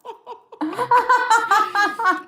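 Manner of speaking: big loud laugh; real loud laugh; loud laughter burst. Real, not acted.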